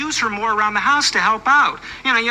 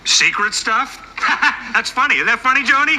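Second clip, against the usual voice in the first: higher, laughing brush-off; forced amusement; 4 semitones higher than usual. Acted. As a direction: laugh it off to hide the secret.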